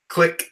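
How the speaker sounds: high, short mimicked click of a misfire; imitated click. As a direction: say the click as the sound itself.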